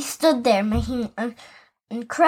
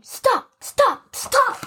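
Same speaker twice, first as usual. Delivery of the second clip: much higher pleading cries; shouting stop; 10 semitones higher, much slower than usual. Acted. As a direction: beg them to stop. Grandfather yelling.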